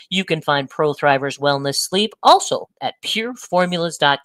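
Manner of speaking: clear, even podcast ad read; sponsor read. Real, not acted. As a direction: read the sponsor copy with punched brand names. Host reads the sponsor messages.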